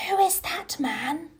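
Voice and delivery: hushed frightened whisper. Acted. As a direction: whisper it so the man can't hear. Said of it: "Colin whispered".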